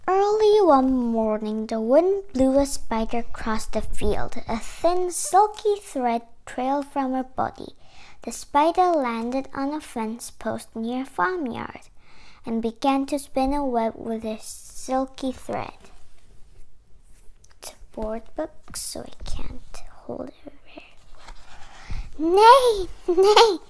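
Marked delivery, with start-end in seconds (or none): 0.1-15.9 measured picture-book reading, clearly projected; story read-aloud. Acted. Reading a spider picture book to children, story read-aloud. 22.4-23.6 high, loud mock neigh; whinny the word out like a horse. Voicing the horse in a picture book, playful neigh. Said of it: "said the horse".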